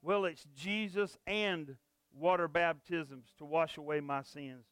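closing prayer. Acted. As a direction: pray for the congregation, unhurried. Pastor leads closing prayer.

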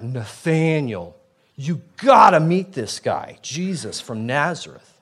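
a hint of a pushy friend; mock eager friend. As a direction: sell it like an overeager buddy. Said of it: "Philip talks like that".

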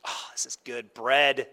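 hushed whisper over bread; whispered delight. Retold or imitated. Smelling good bread, hushed whisper. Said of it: "It's like".

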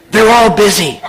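put-on hushed, childlike matter-of-fact reply; whispering small child. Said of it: "a small voice whispered".

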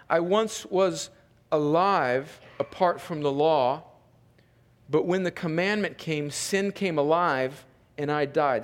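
subdued, measured reading, sinking at the end; scripture reading. Real, not acted. Pastor reads verse nine, subdued scripture reading. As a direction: read the verse out with spaced phrases.

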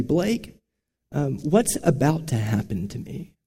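softly retold question; imitating a dying grandfather's calm question; not despairing. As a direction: ask quietly, seeking assurance without despair. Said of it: "he didn't say it like he was despairing".

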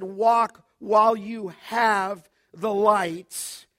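loud, slow and drawn out, every word weighted; loud slow urging. Acted. Preacher voicing Jesus' call to his hearers, loud and slow. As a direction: call them to walk while there is light.

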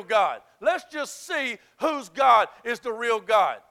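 loud, driving sermon delivery; Elijah's defiant challenge, preached hard; full-force preaching. Acted. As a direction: preach it as a bold challenge to the crowd.

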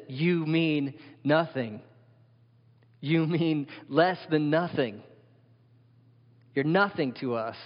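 slow, deliberate, weighted words of dismissal; contemptuous put-down. Retold or imitated. Crucifiers dismissing the man on the cross, slow contempt. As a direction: press each word home slowly. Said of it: "Again, it says".

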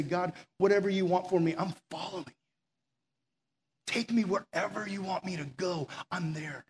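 soft, quiet surrender prayer; a hushed prayer of surrender. Pretend. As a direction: pray it softly, fully given over.

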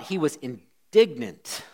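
slow, weighted indignant reading; shaded with real indignation. Shown as a demonstration. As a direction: lean into indignant so it sounds meant. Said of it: "Did you hear how I said the word indignant".

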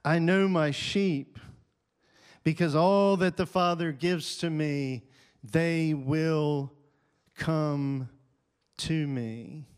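emphatic. Acted. Repeating Jesus' words forcefully.

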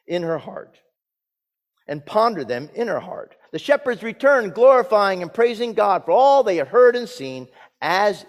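measured, projected Bible reading; scripture reading. Acted. Pastor reads the Christmas story to the congregation, scripture reading. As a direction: proclaim the passage to the congregation.

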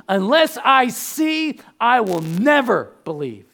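loud, slow, emphatic declaration; defiant vow. Acted. Thomas vowing to the disciples, loud and slow. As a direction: hammer home each condition.

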